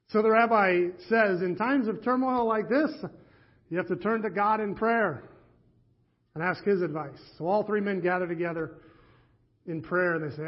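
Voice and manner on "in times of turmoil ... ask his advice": a light Yiddish lilt on the rabbi's advice; a mild rabbinic Yiddish accent. Acted. Rabbi advises the fathers to pray, in a light Yiddish accent. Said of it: "they begged me not to do the accent".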